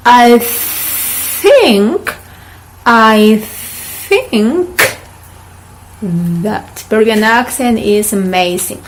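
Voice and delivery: "think" with a soft TH, each word spaced out; soft th sentence. Shown as a demonstration. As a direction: model the sentence slowly. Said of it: "repeat, please".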